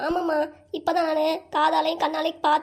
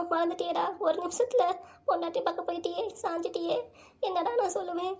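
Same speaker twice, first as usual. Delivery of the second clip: softer, wounded motherly reproach; hurt lament; 4 dB quieter than usual. Acted. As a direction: quietly mourn a son's neglect, sinking softer. Mother laments to her neglectful son. (மனம் நொந்த தாயின் புலம்பல்)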